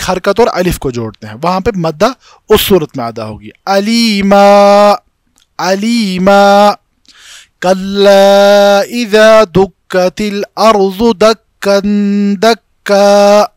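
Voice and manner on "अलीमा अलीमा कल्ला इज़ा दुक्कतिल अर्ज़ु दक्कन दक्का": slow, drawn-out tajweed recitation; Quranic recitation. Shown as a demonstration. Teacher recites verses slowly for the class. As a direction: stretch each vowel as in tilawat. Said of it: "दक्कन नहीं पढ़ते हैं".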